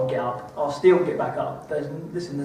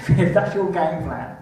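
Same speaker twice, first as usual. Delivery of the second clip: nervous laugh; 3 semitones higher, 4 dB louder, slower than usual. Real, not acted. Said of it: "That's a nervous laugh right there".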